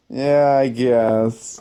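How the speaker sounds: slow, reluctant mumble; sheepish reply. Retold or imitated. Caught by his sergeant, he answers slow and sheepish. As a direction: drag it out sheepishly. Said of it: "And I was like".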